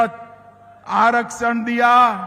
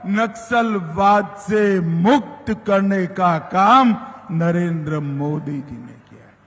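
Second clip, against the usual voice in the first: ordinary talk, nothing marked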